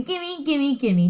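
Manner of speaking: lightly voiced parrot copy; a hint of a parrot squawk; parrot mimicking. Parrot copying the princess, lightly squawked. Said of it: "He's saying".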